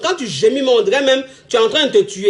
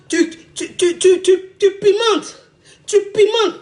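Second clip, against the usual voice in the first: laughing squeal; 7 semitones higher, slower than usual. Acted. Stammering over spicing things up.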